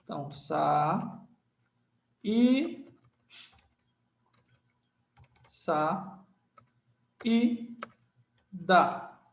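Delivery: saída broken into "Sa... E... Da", each held apart; teacher sounding out syllables one at a time. Shown as a demonstration. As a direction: separate each syllable of saída with long pauses.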